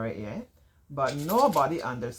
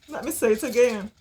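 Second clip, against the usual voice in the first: eager; 5 semitones higher than usual. Real, not acted. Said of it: "cannot resist".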